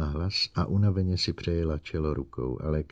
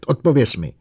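loud, high demand; roared command; 6 semitones higher, 8 dB louder than usual. Acted. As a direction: bark the order. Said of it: "zařval Bogert".

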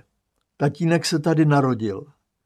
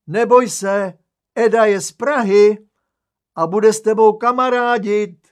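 loud soothing; 8 semitones higher, 7 dB louder than usual. Acted. Aunt soothing crying toddler loudly.

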